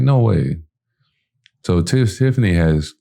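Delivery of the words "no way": higher, thrilled no way; high excited disbelief; amazed. Retold or imitated. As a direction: gasp it out delighted. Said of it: "I'm like".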